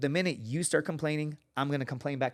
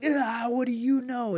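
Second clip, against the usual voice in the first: dismissive scoff; 10 semitones higher, slower than usual. Retold or imitated. Dismissive retort to instructor.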